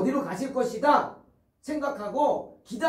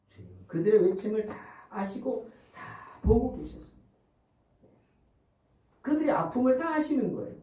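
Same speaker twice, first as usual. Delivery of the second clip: normal talking voice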